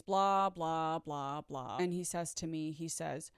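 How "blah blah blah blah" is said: dismissive blah blah. Retold or imitated. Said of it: "all I'm thinking is".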